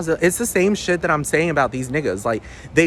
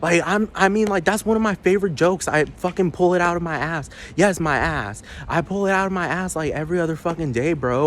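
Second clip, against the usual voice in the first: mock defensive bro; 4 semitones higher than usual. Continues mocking commenter voice.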